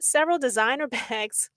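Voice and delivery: breaking into a laugh on "bags"; real suppressed laugh before the last word. Real, not acted. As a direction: let a laugh slip out mid-phrase. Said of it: "I'm sorry, I'm not laughing".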